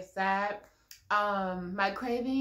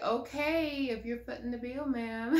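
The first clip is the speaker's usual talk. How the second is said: laughing reply; 3 semitones higher than usual. Retold or imitated. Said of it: "I was like".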